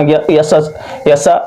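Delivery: यसा with both vowels cut short; या सा squashed into a short यसा; wrongly hurried vowels. Shown as a demonstration. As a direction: mistaken quick reading, यसा run together. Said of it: "ऐसे नहीं करना है".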